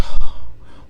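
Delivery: loud, sudden breath of shock; sharp gasp. Acted. Son hearing of his mom's accident, shocked gasp. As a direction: gasp as the news hits. Acted first reaction to bad news.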